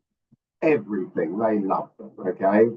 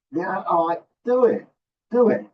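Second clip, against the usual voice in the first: mock permission; 10 semitones higher than usual. Teacher granting permission, playful.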